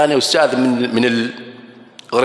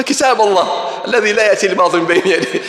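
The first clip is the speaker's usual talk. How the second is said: laughing quip; 4 semitones higher than usual. Retold or imitated. Student answering the teacher with a verse, laughing. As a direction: deliver the clever answer with a laugh.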